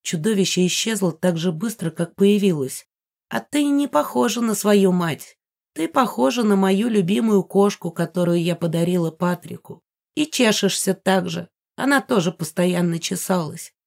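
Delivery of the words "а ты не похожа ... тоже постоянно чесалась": put-on old woman voice. Ghost Megara talks to heroine.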